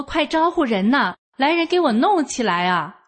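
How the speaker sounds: mildly acted urgent cry for help; calling for help. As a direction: call out for people, without full volume. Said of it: "我这一喊".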